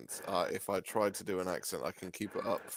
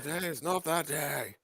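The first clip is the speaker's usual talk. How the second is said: raised, declaiming mock defiance; mock heroic declaration; 7 semitones higher than usual. Co-host finishing the host's line, mock heroic. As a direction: declare it like a film hero.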